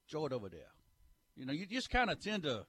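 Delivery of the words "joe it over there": lapse into a Louisiana Cajun accent; put-on Cajun dialect; Cajun brogue. Shown as a demonstration. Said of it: "lapse into the brogue down there".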